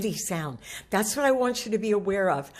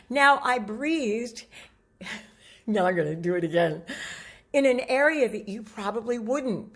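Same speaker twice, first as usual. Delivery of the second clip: ordinary delivery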